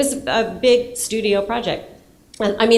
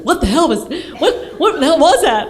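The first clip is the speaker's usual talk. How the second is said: shocked boss; 6 semitones higher, 5 dB louder than usual. Retold or imitated. Boss's shocked phone call quoted.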